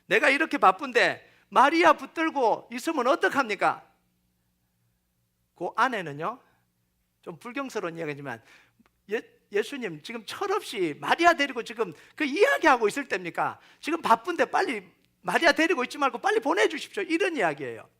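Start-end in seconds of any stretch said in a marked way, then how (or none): 0.0-3.9 louder, imitated indignant complaint; protesting Martha. Overworked Martha complaining to Jesus about Mary, in imitated protest. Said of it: "예수님께 항의를 하는 거예요". 9.1-17.0 protesting Martha. Retold or imitated. Busy Martha urging Jesus to send Mary over, in retold protest. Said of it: "예수님께 항의를 하는 거예요".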